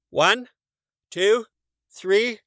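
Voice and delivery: high, loud, eager counting; Morris counting. A narrator's reading. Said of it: "Morris counted".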